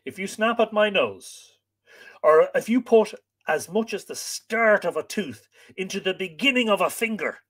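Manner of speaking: threatening, pitched high; growled threat. A narrator's reading. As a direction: warn the dog with menace. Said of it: "he growled".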